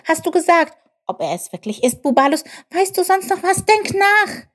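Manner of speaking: high squeaky little character, excited; Chip, excited. Acted. Chip argues the child is the Saviour, high and excited. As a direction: build the case in an eager high voice. Voices Chip's excited reasoning.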